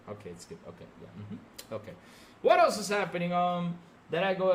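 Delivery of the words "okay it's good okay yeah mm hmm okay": sarcastic mutter. Real, not acted.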